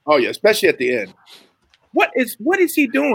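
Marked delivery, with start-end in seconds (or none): 1.9-3.1 surprised. Real, not acted. Amazed at puppet on screen.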